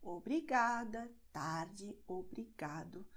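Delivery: Obrigada, tarde, obrigado in a regular rhythm on GA, TAR, GA; second-to-last syllable stressed. Shown as a demonstration. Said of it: "stressed in the second to last syllable".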